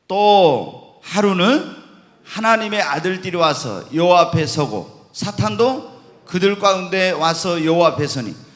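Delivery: loud, measured Bible reading; scripture reading. Acted. Preacher reads the next Job passage to the congregation, scripture reading. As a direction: read the verse out firmly to the room.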